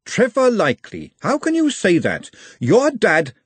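protest, shocked at him; upset Glenda. Acted. Glenda reproaches Trev.

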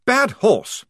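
a mild stern rebuke to a mare; severe scolding. Acted. Lieutenant scolds his biting horse, mildly stern. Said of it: "said Blouse severely".

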